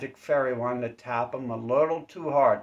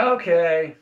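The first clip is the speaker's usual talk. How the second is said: loud, higher dazed okay; mock startled okay; 5 semitones higher, 10 dB louder than usual. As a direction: react like you just got hit. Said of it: "you're like".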